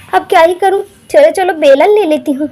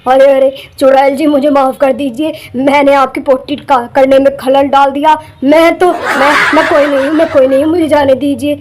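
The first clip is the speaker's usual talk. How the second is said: pleading fear; 6 semitones lower than usual. Acted. Man pleads with witch.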